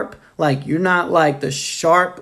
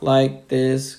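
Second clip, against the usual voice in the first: droning like a dull teacher; imitating a boring lecturer; monotone. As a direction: talk in a sleepy, level drone. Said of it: "So many teachers".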